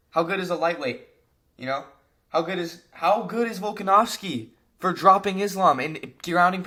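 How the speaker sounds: crashing out. Real, not acted. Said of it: "a little crash out".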